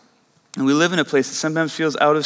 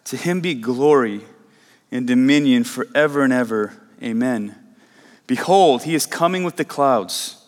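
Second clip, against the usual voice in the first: scripture reading; 3 semitones lower than usual. Acted. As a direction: read the verses with weight, like holy words. Pastor reads Revelation passage aloud.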